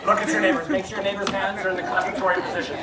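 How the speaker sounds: brisk order to the crowd; mock-stern instruction. Real, not acted. Performer checking that the audience will clap, mock-stern. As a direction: give a quick comic order.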